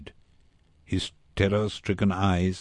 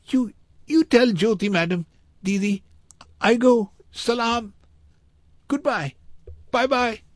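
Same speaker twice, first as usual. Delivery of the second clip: put-on very high child's voice, broken English; hurried farewell from a fleeing boy; high, urgent little-boy voice in short bursts; frightened boy saying goodbye; 4 dB louder than usual. A narrator's reading.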